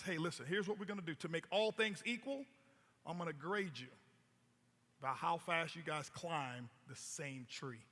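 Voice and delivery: low, quiet professor, slowing right down at the end; a calm teacher laying down the rule softly. Acted. Professor grading the animals.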